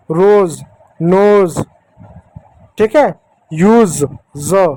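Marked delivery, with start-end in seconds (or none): 4.4-4.7 "ज" pronounced za, like English Z; z sound. Shown as a demonstration. Teacher isolating the sound in use, "ज" as za. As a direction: buzz "ज" as a z. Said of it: "एस को जेड के जैसा".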